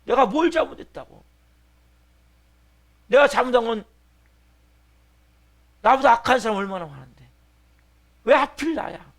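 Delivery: high, loud acted indignation; raging against the unfairness; angry outburst. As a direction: protest your innocence at full voice. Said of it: "막 분노하는 거예요".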